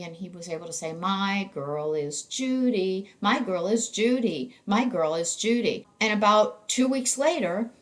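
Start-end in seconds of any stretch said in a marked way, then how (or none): 0.9-5.9 put-on lightly intoned "My girl is Judy", drawn out at first; melodic intonation. Therapist imitating her patient practising his girlfriend's name, "My girl is Judy" in melodic intonation. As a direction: say "My girl is Judy" in measured, repeating sing-song. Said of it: "So we did melodic intonation therapy".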